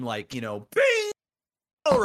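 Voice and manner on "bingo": drawn-out mock cheer; retold victory scream. Dad winning bingo against son, acted scream. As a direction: call out a bingo win. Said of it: "you know, I'd scream".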